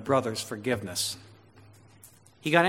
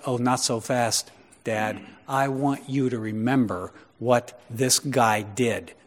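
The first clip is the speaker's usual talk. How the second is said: put-on manipulative older brother; 3 semitones lower, slower than usual. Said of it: "trying to manipulate his dad".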